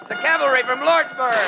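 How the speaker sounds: relieved excitement. Acted. Ringo and Dallas greeting the cavalry rescue, excited cries. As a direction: cry out the good news.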